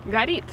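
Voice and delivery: "горит" said ga-REET, rising; Russian word. Shown as a demonstration. Teaching the word for on fire, clear Russian. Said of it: "on fire".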